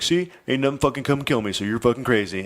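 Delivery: mildly mocking, retold gloat; cocky jackass. Husband to frightened wife, mildly cocky dismissal. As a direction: imitate a smug husband proving his point. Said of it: "kinda like a jackass".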